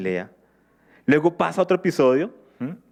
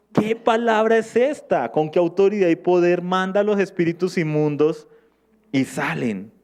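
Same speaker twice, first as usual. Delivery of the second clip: amazed wonder; 4 semitones higher than usual. Acted. Crowd amazed at Jesus' authority.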